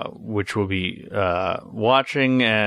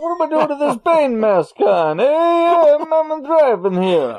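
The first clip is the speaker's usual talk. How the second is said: loud, high New York cabbie voice; 6 dB louder than usual. Pretend. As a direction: shout it like a brash New York cab driver. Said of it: "I'm a taxi driver in New York".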